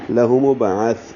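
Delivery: slow لہ مبعث, light breath running on through the last th; hams on final tha. Shown as a demonstration. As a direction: let breath flow out on the th ending مبعث. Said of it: "ہلکی سی سانس کی آواز پڑھنے میں جاری رہے گی".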